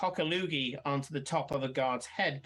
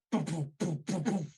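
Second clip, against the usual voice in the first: imitated cannon booms. Imitating remaining weapons firing.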